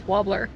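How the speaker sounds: wobbler, first syllable "wah" with no R; R dropped from warbler. Retold or imitated. Wife teasing how husband says warbler, R dropped. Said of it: "So he says wobbler".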